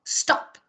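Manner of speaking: "Stop" in one quick burst, starting straight on the s; one syllable. Shown as a demonstration. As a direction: say "Stop" as a single syllable, no i in front. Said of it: "É uma sílaba só". ("Stop" numa sílaba só, sem i antes)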